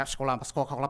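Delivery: very fast, slurred, tongue-twisted gabble on the word. Mimicking speaking in tongues by repeating cola names: very fast, tongue-twisted. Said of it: "혀를 꼬면서 굉장히 빨리 이걸 발음을 한 거예요".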